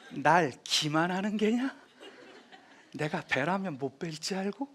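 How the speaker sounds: 위협하는 태종. Retold or imitated. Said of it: "딱 얘기를 하죠".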